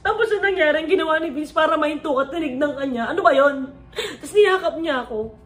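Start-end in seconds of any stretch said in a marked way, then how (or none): 0.1-2.1 tearful, higher. Real, not acted. Tearful retelling, high pitch.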